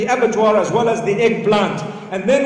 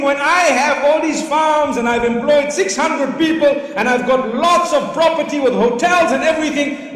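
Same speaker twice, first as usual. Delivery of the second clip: boasting dream; 4 semitones higher than usual. Retold or imitated.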